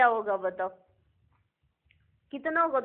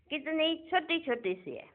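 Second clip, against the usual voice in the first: soft, higher voice for something tiny; hushed wonder; 3 semitones higher, 8 dB quieter than usual. Real, not acted. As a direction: marvel quietly at how tiny they are. Marvels at tiny souls. (धीमी आवाज़ में नन्हेपन पर अचरज)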